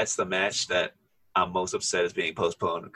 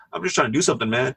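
higher, pleading "I'm just trying to do something, man."; whiny coward pleading; 5 semitones higher, faster than usual. Retold or imitated. Cameron Grimes retold begging Finn Balor, whiny high plea. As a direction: beg off like a cornered heel.

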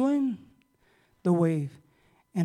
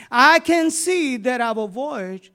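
slow, solemn, lightly voiced warning; Paul's warning; 2 semitones higher, slower than usual. Paul warning the men aboard the ship, slow and solemn. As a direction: read Paul's warning slowly, with gravity. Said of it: "He tells a man in verse ten".

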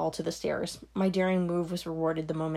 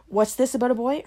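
sharp demanding question, louder and higher; sharp, brittle; 6 semitones higher, 5 dB louder than usual. Acted. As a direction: snap the question at her daughter. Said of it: "Her mother's word came sharp, brittle".

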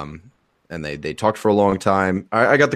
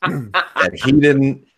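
high, slow, drawn-out whiny denial; mocking whine; 7 semitones higher, 3 dB louder, much slower than usual. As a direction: stretch out didn't like a whiny kid. Mocking denial, who shot first.

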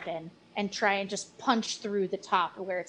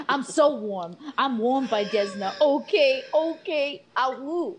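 excited; 5 semitones higher, 6 dB louder than usual. Acted. Character relieved after nat twenty.

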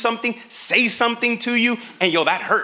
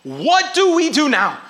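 desperate; 5 semitones higher than usual. Retold or imitated. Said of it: "this came from desperation".

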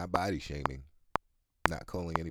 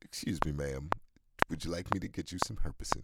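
polite retold offer; 4 dB quieter than usual. Retelling asking a stranger about her cold sore, softly polite. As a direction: ask it quietly, too politely. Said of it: "I actually said that to somebody".

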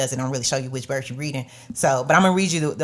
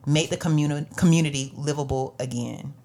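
scripture reading. Acted. Reads scripture aloud.

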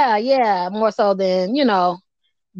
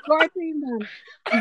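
slow repeat; 3 semitones higher, 5 dB quieter, much slower than usual. Shown as a demonstration. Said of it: "Right, right".

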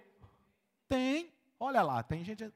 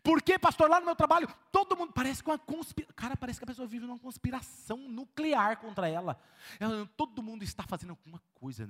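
whiny victim; 3 semitones higher, 3 dB louder than usual. Retold or imitated. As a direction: whine like a victim. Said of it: "É vítima".

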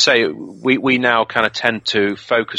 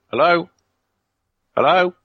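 higher-pitched questioning hello; calling out; 9 semitones higher than usual. Retold or imitated. Friend Tim calls into the empty tower, calling out. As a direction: call out to see who's there.

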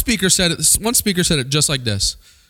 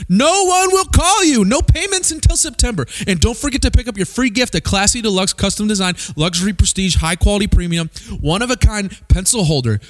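rapid ad pitch. Retold or imitated. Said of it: "one speaker said it just like this".

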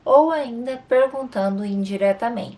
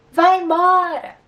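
loud, high "vai embora!"; shouted command; 9 semitones higher, 7 dB louder than usual. Shown as a demonstration. Teacher demonstrates a shouted order to leave, loud and high. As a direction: yell at them to get out. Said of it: "numa entonação um pouco mais gritante".

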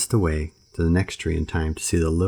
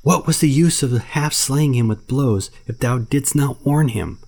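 slow, high scolding panther; angry panther; 8 semitones higher, 4 dB louder than usual. Acted. Bagheera scolding Baloo about the man cub, slow angry panther. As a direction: scold the bear slowly.

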